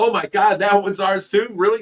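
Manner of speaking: loud, high, freaking-out excitement and amazed disbelief. Retelling being given a truck full of fish: retelling own past freak-out. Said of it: "I was just, like, freaking out".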